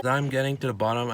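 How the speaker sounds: talking through a messy mouthful; chewing while talking. Real, not acted. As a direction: speak around a bite of food. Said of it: "I know my mouth's a little messy".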